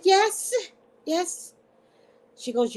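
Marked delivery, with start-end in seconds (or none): 0.0-1.6 nervous yes. Retold or imitated. Caught, answering nervously.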